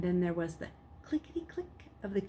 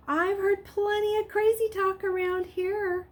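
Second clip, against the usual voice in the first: high, quick and dismissive; brisk nurse voice; 13 semitones higher, 5 dB louder than usual. Acted. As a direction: wave off his worry breezily. Nurse breezily cutting Luke off.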